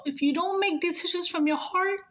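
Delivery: moved, voiced repeat of the advice; emotional. Real, not acted. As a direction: say it again, choked up and pleading. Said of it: "getting emotional".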